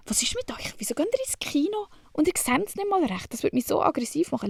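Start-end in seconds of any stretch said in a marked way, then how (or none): 0.1-3.3 disbelieving whisper. Real, not acted. Asking viewers why they go blind to the cinema, whispered. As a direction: hush it as a baffled aside.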